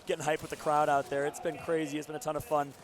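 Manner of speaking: hoarse from cheering; strained, worn-out voice. Real, not acted. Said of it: "I lost my voice".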